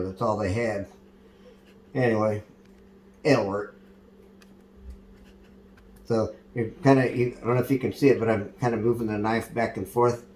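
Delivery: put-on hillbilly accent; redneck accent. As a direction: play the easygoing redneck cook, twang and all.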